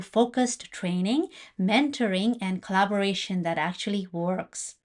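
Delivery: soft, measured welcome read; scripted podcast intro. Acted. Host welcomes listeners to her guided meditation conversation, soft intro read. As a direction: gently usher listeners in, slightly softened voice.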